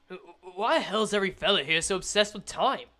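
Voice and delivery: lightly voiced Australian Gregor; Australian-tinged character voice; Australian accent. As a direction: put on a rough attempt at an Australian accent. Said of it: "I think I made Gregor Australian".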